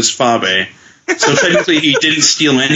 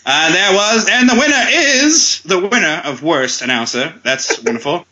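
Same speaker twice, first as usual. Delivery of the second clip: put-on grand old ballroom announcer; 4 semitones higher than usual. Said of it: "old-timey announcer Billy Robinson".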